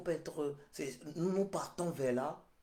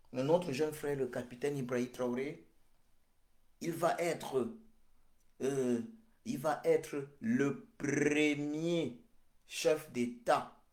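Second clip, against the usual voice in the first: louder, slow, each word hammered out; loud proclamation; 3 semitones higher, 7 dB louder than usual. Real, not acted. Preacher announcing his vision to the crowd, loud and slow. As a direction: proclaim it like a prophecy that cannot fail.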